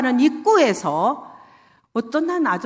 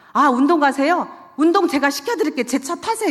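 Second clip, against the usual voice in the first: higher, quick and eager; eager invitation; 5 semitones higher than usual. Retold or imitated. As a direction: pounce on him with a cheery offer. Cheerful pitch to a stranger.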